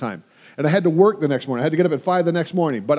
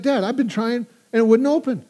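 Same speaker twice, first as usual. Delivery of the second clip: imitated daughter; 5 semitones higher than usual. Daughter complaining car won't open.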